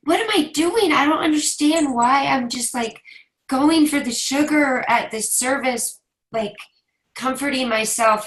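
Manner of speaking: tearful, high and unsteady; fighting back tears while confessing; blubbering. Real, not acted. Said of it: "I'm so emotional".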